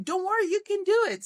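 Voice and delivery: high-pitched imitation of kids cheering a friend on; encouraging. Kids cheering on climbers at a big wall, encouraging. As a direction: call out encouragement like a supportive kid. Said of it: "they're also encouraging the ones".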